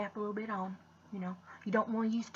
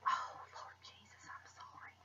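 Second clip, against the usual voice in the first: embarrassed whisper; 12 dB quieter than usual. Real, not acted. Vlogger whispering sorry about her dirty fingernails. Dirt under fingernails, apologising.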